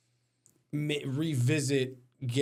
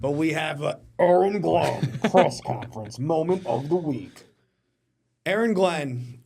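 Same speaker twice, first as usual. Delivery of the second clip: loud, higher, cracking up on the words; laughing through it; 4 semitones higher, 5 dB louder than usual. Real, not acted. Host introducing the coach's press conference moment, laughing. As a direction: try to announce it while laughing. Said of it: "can't even say it before, without laughing".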